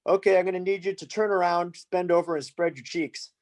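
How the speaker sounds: put-on creepy French accent. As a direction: imitate a creepy officer with a hint of French. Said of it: "the creepiest French accent ever".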